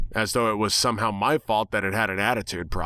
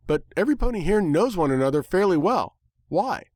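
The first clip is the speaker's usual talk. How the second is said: higher, wary questioning voice; suspicious Twilight; 8 semitones higher than usual. A narrator's reading. Twilight questioning the protagonist, suspicious. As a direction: ask with growing suspicion.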